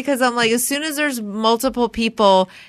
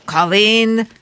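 political sing-song voice; 3 semitones higher than usual. Pretend. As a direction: announce each name like a grand speech. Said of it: "in my political sing-song voice".

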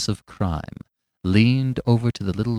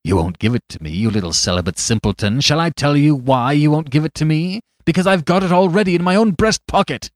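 gloating cry; 3 semitones higher, 5 dB louder than usual. Acted. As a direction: crow over the fool, building to a shout. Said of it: "he cried".

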